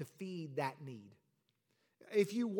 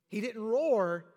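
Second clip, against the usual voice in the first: roar contrast; 2 semitones higher, 6 dB louder, slower than usual. Shown as a demonstration. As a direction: roar said loud.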